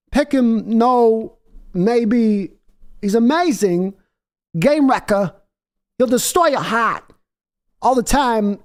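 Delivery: half-hearted impression with broken phrasing; impression requested by chat. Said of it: "let me get my voice right here".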